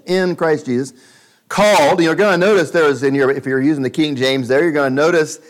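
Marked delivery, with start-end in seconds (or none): 0.1-0.9 "in" pressed out firmly before Christ Jesus; stress on IN. Shown as a demonstration. Preacher to congregation, stressing "in". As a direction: lean on the little word "in". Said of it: "the in part of Christ Jesus".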